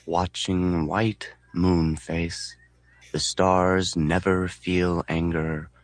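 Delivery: very slow, evenly measured poem reading; centering recitation. A narrator's reading. Narrator reciting a haiku to get centered, slow and measured. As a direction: draw each word out as if meditating.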